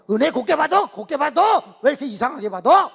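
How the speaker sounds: high, loud exasperated cry; the pastor shouting at the girl; exasperated outcry. Retold or imitated. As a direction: throw up your hands and shout.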